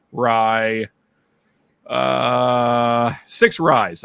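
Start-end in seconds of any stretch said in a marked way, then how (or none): 3.3-4.0 chuckling through it; laughing. Real, not acted. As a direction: laugh out the words. Laughs at his own list.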